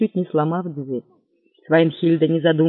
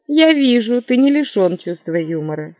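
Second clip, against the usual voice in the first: barmaid sarcasm; 4 semitones higher than usual. Acted. Barmaid mocks him.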